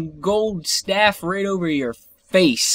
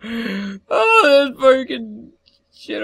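drawn-out whiny groan; crying-out gamer frustration; frustrated whine; 5 semitones higher, 3 dB louder, much slower than usual. Real, not acted. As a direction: whine like it's so unfair. Frustrated at mob in game.

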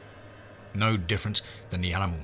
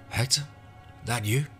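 calling out; 5 semitones higher than usual. Acted. Stranger calling out in fog.

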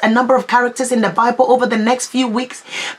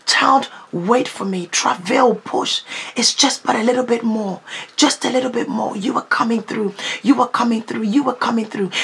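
gentle voice of God. Pretend. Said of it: "And he's saying".

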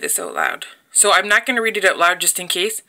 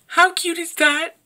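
excited; 9 semitones higher, slower than usual. Real, not acted. Excited over new stamp.

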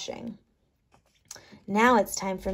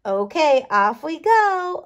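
ordinary delivery

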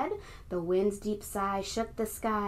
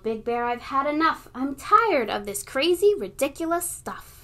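yelling; 3 semitones higher, 4 dB louder than usual. Acted. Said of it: "She yelled".

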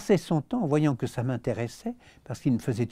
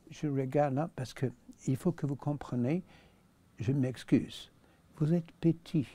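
imitating Rex Harrison. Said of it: "alors il parle comme ça".

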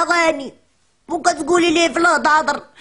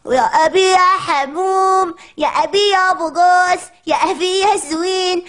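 put-on mom cooing over baby; slower than usual. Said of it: "قالت لك".

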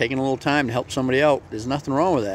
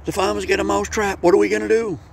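much higher, squeaky small-mouse voice; a panicked tiny mouse begging for help, pitched way up; frantic little mouse; 9 semitones higher than usual. Acted. Mouse begs the chicken for help, high and squeaky. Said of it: "and he said".

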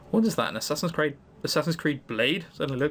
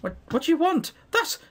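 put-on high, starstruck young gem crafter; high gushing fangirl voice; 9 semitones higher than usual. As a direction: gush like a starstruck fan. Gushing fan character voice.

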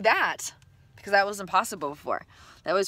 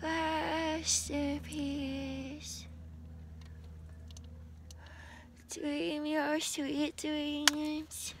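very slow, high, hushed farewell; whispered lullaby; 9 semitones higher, 4 dB quieter, much slower than usual. Real, not acted. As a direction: breathe it out like a lullaby.

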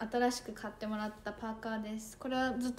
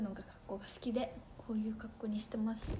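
ささやき声; 6 dB quieter than usual. Real, not acted. Aside to viewers.

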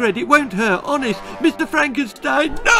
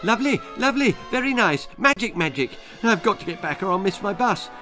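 high, fast nervous babbling; terrified babble; 6 semitones higher, faster than usual. Acted. Terrified boy babbling at the villain, high and fast. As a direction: gabble to fill the silence. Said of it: "Jack's terror set his tongue wagging".

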